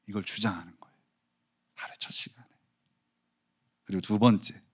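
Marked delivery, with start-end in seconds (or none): 1.7-2.5 breathy whisper. Real, not acted. Preacher whispering the reminder to the church. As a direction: whisper it like a secret.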